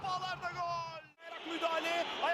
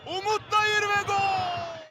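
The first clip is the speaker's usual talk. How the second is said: drawn-out, louder goal call; goal scream; 8 dB louder, slower than usual. Real, not acted. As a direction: stretch the goal call out loud. Commentator calls a goal.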